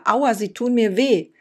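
loud, high pained protest; child protests as ear is pulled; crying out in pain. Acted. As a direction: wail that it hurts. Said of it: "schrie Lucia".

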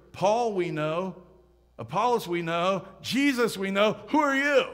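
rising in volume to a sharp final demand; demon's challenge. Retold or imitated. Demon's challenge quoted from scripture.

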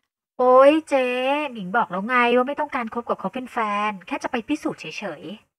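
loud drawn-out "oy", then protesting; exasperated protest. Acted. Protesting to her older colleague about the date, exasperated. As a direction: push back at an older friend's teasing.

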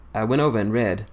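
usual speaking voice

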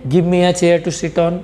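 very slow, each word laid out; slow example sentence. Shown as a demonstration. Teacher reading an example sentence to the class, very slow. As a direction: read the example so students can copy it.

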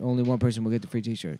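lightly voiced deep promo guy; deep-voice announcer. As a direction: drop it down like an ad's fine print. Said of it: "The deep voice guy".

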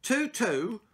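high, loud blurted answer; boy calls out over the class; cheeky shout. Acted. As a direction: yell it out without raising a hand. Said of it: "shouted Peregrine".

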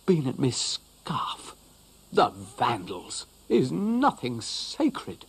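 slow, dramatic indignation; hammed-up horror at the vandals; dog outraged someone ate his scarf; mock outrage.

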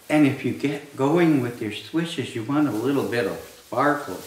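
usual speaking voice

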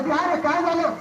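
high, urgent question; alarmed asking. Acted. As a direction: demand to know what's going on. Villager asks what happened.

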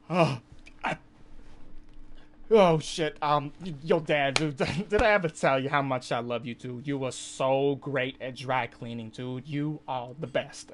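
loud, nervous sucking-up to dad; panicked flattery. Retold or imitated. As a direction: blurt the compliments to dodge trouble.

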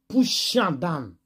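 slow hushed whisper. Retold or imitated. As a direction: breathe it as a hushed aside. Retelling the fight.

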